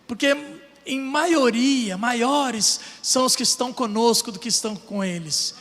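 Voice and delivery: prayer. Retold or imitated. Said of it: "E ele faz uma oração".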